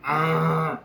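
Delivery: imitated limp, dazed moan; drunken groan. Drunk friend being dragged home, imitated groan. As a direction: groan like a dead-weight drunk.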